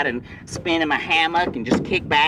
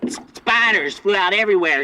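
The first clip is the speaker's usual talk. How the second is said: excited shout; 5 semitones higher than usual. Acted. Climax of gross story.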